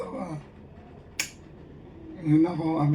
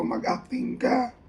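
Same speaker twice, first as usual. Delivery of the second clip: slow, higher-pitched call; mock yell; 6 semitones higher, slower than usual. Sandro yelling at him to act, slow mock yell. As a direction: drag it out like a director yelling. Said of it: "sumisigaw si Sandro".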